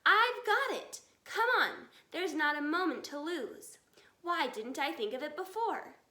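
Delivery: high, loud eureka shout; excited shout. Acted. Fox father shouting his escape plan, excited. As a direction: burst out with the sudden idea. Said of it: "He jumped up and shouted".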